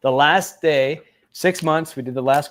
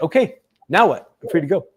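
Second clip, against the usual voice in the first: higher, louder retold question; retold expectant outburst; eager questioning; 4 semitones higher, 5 dB louder, faster than usual. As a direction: push for an answer, pitched up. Retells his eager question to judge.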